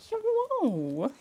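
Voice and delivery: high soft hello to pet. Real, not acted. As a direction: coo a sweet hello. Greeting the dog.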